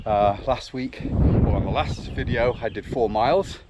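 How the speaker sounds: out of breath mid-run; puffing and panting while running; while jogging. Real, not acted. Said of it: "as you can hear, I am puffing and panting a bit".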